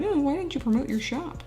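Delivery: a goofy, hinted take on her partner nagging her; Frenchie voice. Retold or imitated. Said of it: "that's what his voice sounds like".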